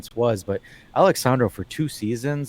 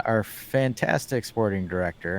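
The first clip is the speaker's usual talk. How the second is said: sarcastic. Real, not acted. Host naming the club's sporting director to fans, sarcastic. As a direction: praise him without meaning it. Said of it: "and I say it sarcastically".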